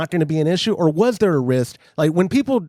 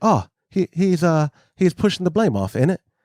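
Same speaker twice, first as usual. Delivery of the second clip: put-on English accent. Retelling what the British onlookers said about him after things went wrong, put-on English accent. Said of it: "I'm working on my English accent".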